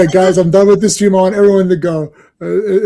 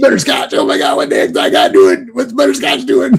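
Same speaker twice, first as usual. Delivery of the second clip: hollering hick monster-truck fan; hammed-up hick yell; super hick; 8 semitones higher than usual. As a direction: shout it like an excited hick spectator. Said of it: "It's like these super hicks".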